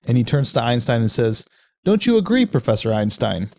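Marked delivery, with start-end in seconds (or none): 1.8-3.5 put-on German accent. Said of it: "apologies for the, the accent".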